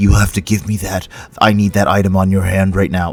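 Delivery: really gruff, rough, edgy voice. Describing a game, the speaker quotes a character met again, gruff, edgy KFSS voice. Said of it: "really gruff, edgy voice".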